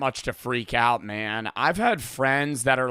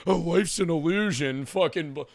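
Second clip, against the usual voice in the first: higher-pitched mock tripping ramble; stammering, pitched-up parody of druggy philosophizing; spewing crazy shit; 4 semitones higher than usual. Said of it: "he's just spewing fucking crazy shit".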